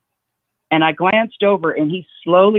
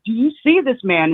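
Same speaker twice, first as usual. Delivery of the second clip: mild mock yell, pitched higher; retold yell; 5 semitones higher than usual. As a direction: imitate yelling at Mary without full volume. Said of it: "I yell at Mary".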